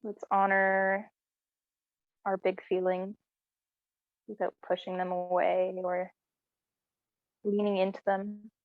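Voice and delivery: unhurried, even-pitched meditation voice with long pauses; guided meditation. Real, not acted. Teacher settling a class curled up with closed eyes, guided meditation. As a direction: ease them gently inward, leaving space between phrases.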